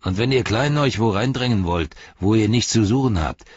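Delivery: sneer, then threaten; sneering ruffian. Acted. Ruffian laughing off Lotho, contemptuous threat.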